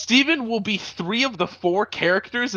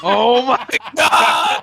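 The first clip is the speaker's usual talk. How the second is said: slow, loud disbelieving cry; exasperated shout; 3 semitones higher, 6 dB louder, much slower than usual. Real, not acted. Reacting to soup mid-scene.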